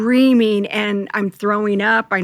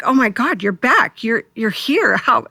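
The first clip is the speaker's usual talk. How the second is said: shocked; 2 semitones higher than usual. Retold or imitated. Mother seeing her dead son at the door, shocked. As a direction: gasp it out as if he's impossibly there.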